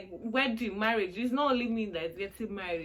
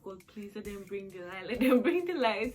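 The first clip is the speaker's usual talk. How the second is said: retold begging; 5 dB louder than usual. Child begging God for electricity, mild retold pleading. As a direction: plead lightly, then lift it with a laugh. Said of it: "I'm seriously begging God".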